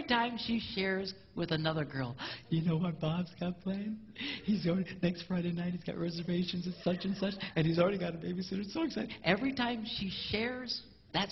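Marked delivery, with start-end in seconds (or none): 2.5-9.1 lightly voiced wife gushing; a hint of an excited wife sharing news; gossiping wife. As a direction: gush to a girlfriend. Wife bragging to friend.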